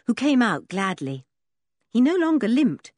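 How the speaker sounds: usual speaking voice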